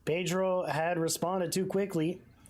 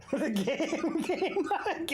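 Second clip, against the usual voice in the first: laughing through the words, higher; words broken by laughter; 10 semitones higher, slower than usual. Real, not acted. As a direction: player amused the game gave up.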